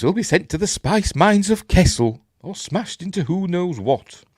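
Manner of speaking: high, fussy droid line; mock-worried film quote in a high voice; fretful droid quote.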